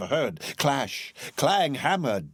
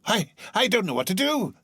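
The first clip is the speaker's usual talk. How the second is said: laughing and crying; 10 semitones higher than usual. Acted. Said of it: "cried Scrooge, laughing and crying in the same breath".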